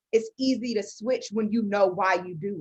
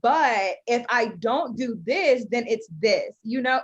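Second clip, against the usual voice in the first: talking while chewing gum; words around a wad of gum. Real, not acted. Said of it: "Blowing bubbles, Andrea, really?".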